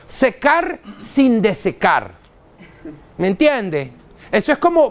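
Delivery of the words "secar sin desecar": drawn out slowly, mock-solemn; mock conference slogan. A lecturer parodying what conference speakers say, slow and mocking. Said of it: "Esa es una vaina que lo dicen los conferencistas".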